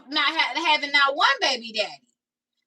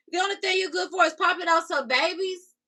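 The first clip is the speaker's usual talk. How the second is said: outraged repeat; 5 semitones higher than usual. Real, not acted. Mocking a rude comment, outraged.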